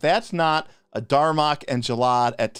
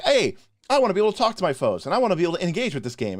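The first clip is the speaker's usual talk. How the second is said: quick, higher-pitched mock player; eager player imitation; 5 semitones higher, faster than usual. Imagined player speaking up for themselves, quick higher voice. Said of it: "somebody tries to decide to be like".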